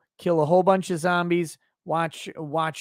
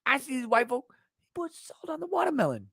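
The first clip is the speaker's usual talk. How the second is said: mock white guy voice; 7 semitones higher, 5 dB quieter, faster than usual. Mocking a white voice.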